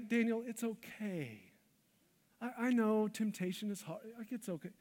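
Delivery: a soft, indulgent pat on the head; mock soothing God. Imagined God excusing Daniel, mock soft and soothing. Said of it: "God doesn't say".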